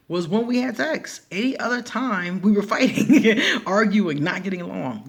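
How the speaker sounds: about her husband, laughing. Real, not acted. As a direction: laugh at the marriage.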